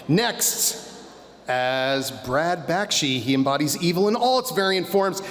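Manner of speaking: pro wrestler announcer voice. Pretend. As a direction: hype the entrance, wrestling style. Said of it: "pro wrestler announcer voice".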